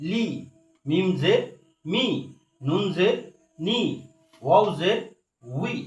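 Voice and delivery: letter name rising, then the short syllable after a pause; measured Arabic spelling drill; careful letter articulation. Shown as a demonstration. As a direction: model each sound distinctly for learners. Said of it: "একদিক খেয়াল করতে হবে এবং উচ্চারণ করতে হবে".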